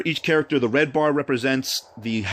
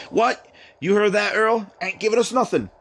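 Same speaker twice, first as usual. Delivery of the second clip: high-pitched mock Cockney bandit; indignant Cockney, pitched well up; Cockney accent; 8 semitones higher than usual. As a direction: put on a Cockney crook's voice. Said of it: "He's got a Cockney accent".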